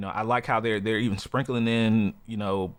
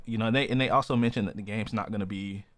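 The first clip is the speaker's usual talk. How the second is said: talking through hiccups; hiccuping mid-sentence. Real, not acted. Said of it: "excuse me, I have a, have the hiccups".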